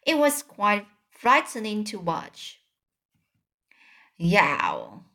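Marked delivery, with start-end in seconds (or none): 4.2-5.0 roar. A narrator's reading. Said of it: "roared the flesh lampeter".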